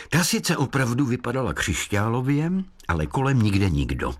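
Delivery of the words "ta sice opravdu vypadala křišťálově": plain reading voice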